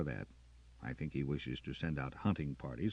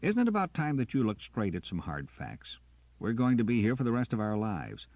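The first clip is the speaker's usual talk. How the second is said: louder, higher hard lecture; stern lecture; 6 semitones higher, 6 dB louder than usual. Acted. Jackson lecturing Carter, louder and stern. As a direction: lay down the facts firmly.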